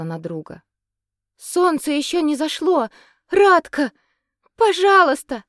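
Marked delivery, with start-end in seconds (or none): 1.4-5.4 high, loud begging cry; desperate plea. Acted. Katerina cries out to the lifeless Radko, begging. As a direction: beg him not to die. Katerina begs dying friend.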